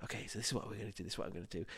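low, very soft practice murmur; hushed tones. Retold or imitated. Team rehearsing a pitch round the table, in hushed tones. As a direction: imitate talking discreetly under your breath. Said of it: "hushed tones 'cause we didn't wanna".

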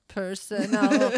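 slow, laughing through the word. Real, not acted. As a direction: let the laugh break in. Laughing mid-sentence.

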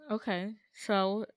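muffled behind a hand; hand over mouth. Real, not acted. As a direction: talk through your hand. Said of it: "put my hand over my mouth when I'm talking".

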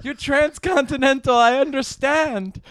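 careful English in a put-on Japanese accent; mock Japanese mother. Mom proudly misunderstands son, careful mock Japanese accent. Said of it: "I've been practicing my English classes".

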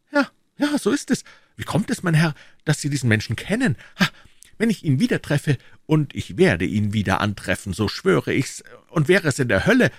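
very high, excited burst turning to a vow; hot-headed young D'Artagnan, agitated. Acted. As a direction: swear revenge as an impetuous youth. Voices D'Artagnan swearing revenge. (hitzköpfiger junger Held, hoch und aufgeregt)

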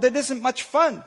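slow, mildly grumbling complaint; a soaked elephant grumbling to himself. Acted. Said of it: "the poor elephant grumbled".

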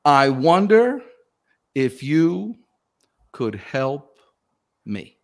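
slow deliberate. Shown as a demonstration. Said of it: "The words are".

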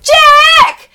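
very high, loud, drawn-out yell; calling out. Retold or imitated. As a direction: call down from the top of the stairs. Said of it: "calling out from the top of the stairs".

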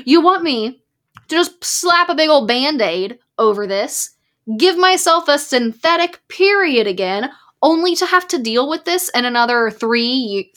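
throwing the question back at the doctor; retold angry reply. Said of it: "I'm getting angry again".

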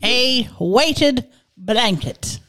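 mock French judge voice; hammed-up French lawyer accent. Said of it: "do the little French voice".

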